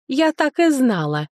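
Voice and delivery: slow, angry bark of triumph. A narrator's reading. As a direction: snap it out like a strict matron. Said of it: "рявкнула на нас распорядительница".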